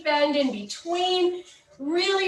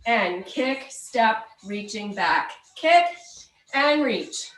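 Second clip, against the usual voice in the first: aerobics instructor; slower than usual. Acted. Counts kicks and reaches.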